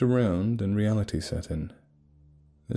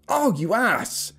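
high, drawn-out winded groan; pained, strained high exclamation; 13 semitones higher, slower than usual. Acted. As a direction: push it out as if punched in the stomach. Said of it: "barely got out due to his lack of breath".

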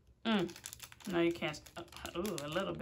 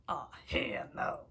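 breathy whisper, lower; whispered refusal; 6 semitones lower, 5 dB quieter than usual. Real, not acted. Vlogger staring at the chip, whispered refusal. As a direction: whisper it in dread.

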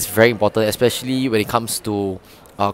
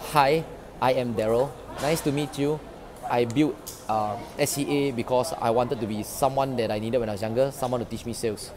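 low-energy intro; 7 dB quieter than usual. Shown as a demonstration. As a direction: say it without any drive. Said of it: "I will show you guys a demonstration".

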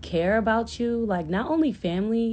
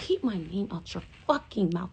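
a hint of a stern mother; 4 dB quieter than usual. Mother warning gossipers, quiet stern threat. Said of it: "That's what she said".

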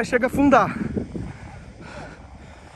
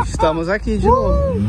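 laughing; 13 semitones higher than usual. Real, not acted. Laughing while stuck again.

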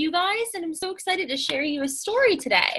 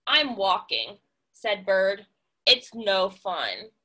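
grumpy bird; 6 semitones lower, slower than usual. Acted. Grumpy Bird, low sulky.

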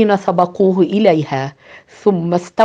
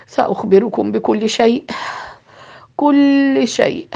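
resigned to telling the grim truth; sighing; 3 semitones higher than usual. Acted. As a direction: sigh it heavily. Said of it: "تنهد قائلا".

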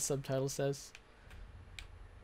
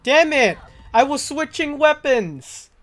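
loud, high angry outburst, slower; frustrated shout; 11 semitones higher, 15 dB louder than usual. Real, not acted. Gamer killed while switching weapons, furious shout. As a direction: yell it out in real frustration.

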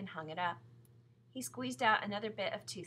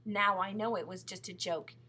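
louder, mildly exasperated mother; protesting; 8 dB louder than usual. A narrator's reading. Mother dismissing the chocolate tale, protesting. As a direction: wave the claim away firmly. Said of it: "protested Missus Midas".

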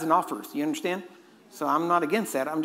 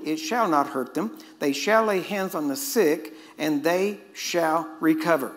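scripture reading. Acted. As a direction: read the King James words like a proclamation. Reads Mark sixteen aloud.

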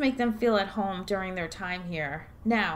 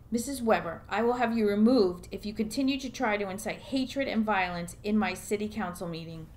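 ordinary talk

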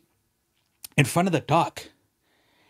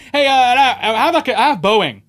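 laughing while talking; 7 semitones higher, 8 dB louder than usual. Real, not acted. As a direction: push the words out between laughs. Laughing through rich-man quote.

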